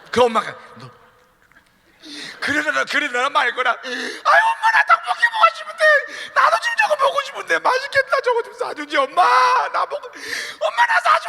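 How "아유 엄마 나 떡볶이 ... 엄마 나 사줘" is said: loud crying tantrum; wailing child. Acted. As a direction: howl the pleas in public. Child wailing to shame mother.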